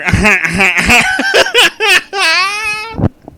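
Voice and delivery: very high, loud laughing fit near tears; helpless laughter; crying with laughter. Real, not acted. Reader breaks down after Squidward line, tearful laughing fit.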